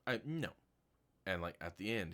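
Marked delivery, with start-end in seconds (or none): 0.0-0.5 whiny refusal. Retold or imitated. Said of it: "he's like".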